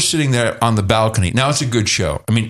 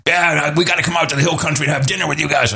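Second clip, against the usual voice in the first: Alex Jones impression; 4 semitones higher than usual. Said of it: "That's exactly how he talks".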